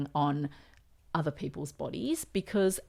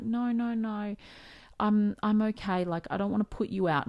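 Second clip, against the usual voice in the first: imitating dad; 5 semitones higher than usual. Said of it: "he's the type of person that's like".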